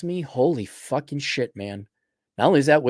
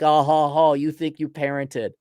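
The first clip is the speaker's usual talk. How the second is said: mocking laugh back. Laughing back at the critics, mocking retort. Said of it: "And I laugh back".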